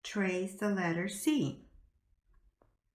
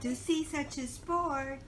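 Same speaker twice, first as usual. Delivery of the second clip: put-on reading to a toddler; 3 semitones higher, slower than usual.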